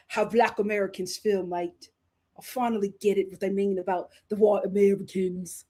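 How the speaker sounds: mock British accent, toned down; playful put-on British voice; little British accent. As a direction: imitate a British TikToker's accent. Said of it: "my little British accent".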